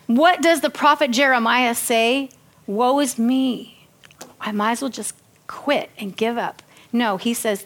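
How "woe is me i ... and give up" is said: mock despair. Preacher voices the prophet ready to quit, despairing. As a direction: sink into resigned gloom, dragging the first words.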